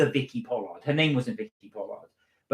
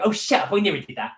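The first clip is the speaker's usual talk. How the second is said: imitating Kelly; 7 semitones higher, 4 dB louder, faster than usual. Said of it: "She talked just like that".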